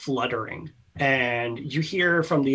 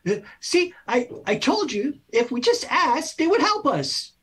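much higher, small pleased voice; tiny spirit voice; 13 semitones higher than usual. Acted. A small spirit tells the others asking worked, much higher. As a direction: squeak it like a little ghost.

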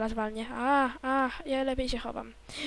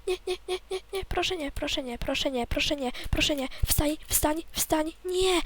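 higher-pitched, repeated begging; frantic pleading; 4 semitones higher than usual. Real, not acted. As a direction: beg desperately, word after word. Begs in the game to get up. (błagalnie, w panice)

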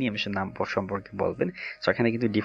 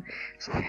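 soft breathy chuckle; 9 dB quieter than usual. Real, not acted. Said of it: "just making fun".

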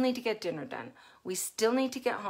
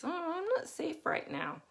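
put-on scared child; 9 semitones higher, 6 dB quieter than usual. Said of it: "a child thinks".

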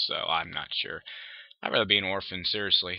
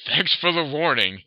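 flat; 4 semitones higher, 5 dB louder than usual. Acted. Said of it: "he said flatly".

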